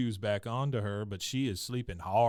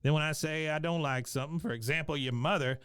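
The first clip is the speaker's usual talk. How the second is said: Cotton; 4 semitones higher than usual. Retold or imitated. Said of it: "Cotton pipes up again".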